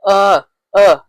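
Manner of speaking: "Uh, uh" like the start of umbrella; two separate short "uh" vowels; short U sound. Shown as a demonstration. Teacher says think umbrella, short U sound. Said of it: "Think as an umbrella".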